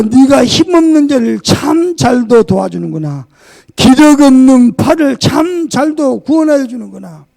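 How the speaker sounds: loud, mocking praise shouted out; sarcastic shout. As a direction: bellow the false praise with scorn. Job's sarcastic reply read aloud. (비꼬듯 크게 외치며)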